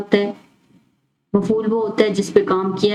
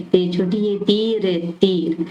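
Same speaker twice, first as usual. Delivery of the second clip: slow spelling out; slower than usual. Shown as a demonstration. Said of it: "इसमें छोटी ये आती है".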